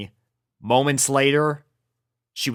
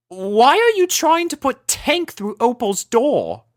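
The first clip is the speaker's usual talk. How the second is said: high, refined lady voice, mildly baffled; Rarity puzzled at Rainbow shoving a tortoise; 12 semitones higher, 4 dB louder than usual. Acted. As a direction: ask it like a prim unicorn. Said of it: "continued Rarity".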